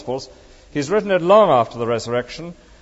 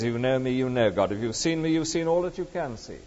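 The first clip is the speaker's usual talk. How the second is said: quiet voice of Jesus; 2 semitones lower, 8 dB quieter than usual. Retold or imitated. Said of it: "And Jesus says".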